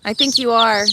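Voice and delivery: warm laugh after teasing; kind gentle laugh. Real, not acted. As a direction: laugh kindly at the joke. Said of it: "chicken whisperer".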